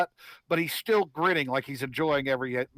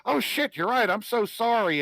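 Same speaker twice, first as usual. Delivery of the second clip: sheepish realization; 5 semitones higher than usual. Acted. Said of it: "He goes".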